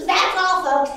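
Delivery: mild cartoon closing line impression; a hint of the cartoon ending; cartoon sign-off. Quoting a childhood cartoon, mild cartoon sign-off voice. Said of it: "cartoons of my childhood".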